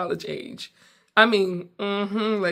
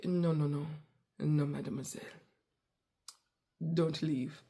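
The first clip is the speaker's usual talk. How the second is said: pleading waiter; 2 semitones lower, 8 dB quieter than usual. Retold or imitated. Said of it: "the gentleman was like".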